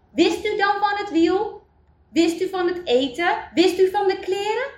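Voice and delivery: high-pitched questions, each rising; incredulous questioning. Acted. Villagers asking Eli what he knew, incredulous. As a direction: fire off the questions in amazed disbelief.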